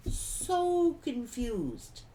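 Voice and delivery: "so confused" drawn out very slowly; slow emphasis. Real, not acted. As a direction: stretch "so confused" out, word by word. Repeats phrase slower for emphasis.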